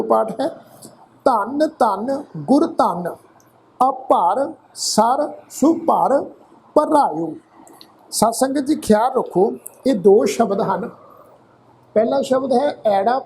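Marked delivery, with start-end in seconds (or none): 1.2-7.3 slow, drawn-out chant of the verse; slow recitation. Shown as a demonstration. Teacher reciting a verse to the congregation, slowly. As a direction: lay out every syllable slowly.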